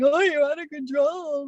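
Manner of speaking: high mocking voice of the critics; mock disapproval. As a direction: mimic people scolding a crying woman. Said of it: "they're like".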